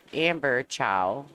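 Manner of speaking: Chow said slowly, rhyming with cow; pronunciation. Shown as a demonstration. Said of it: "people naturally say Chow".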